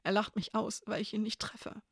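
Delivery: small, high, hushed voice; whispered. A narrator's reading. Crying May telling Elena he laughs at them, whispered. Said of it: "flüsterte May".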